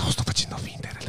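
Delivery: unvoiced whisper, quick aside. Real, not acted. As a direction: whisper it fast under your breath. Aside to co-host during live.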